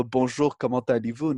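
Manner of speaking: "Bonjour, comment allez-vous?" with a native French accent. Shown as a demonstration. Showing the host his accent-free French greeting. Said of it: "Notice how there's no accent when I speak".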